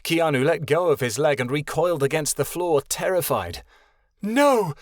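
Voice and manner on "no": high, loud desperate "No!"; loud call. A narrator's reading. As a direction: call out to stop the blow. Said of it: "Vera called".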